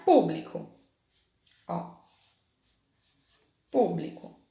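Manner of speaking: público said slowly, stressed PÚ marked; slow syllable stress. Shown as a demonstration. Teacher modelling the stressed syllable for pupils. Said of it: "pintar de azul a sílaba".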